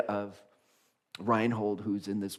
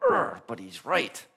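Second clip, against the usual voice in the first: grudging concession; slower than usual. Retold or imitated. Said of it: "look at Reinhold and go".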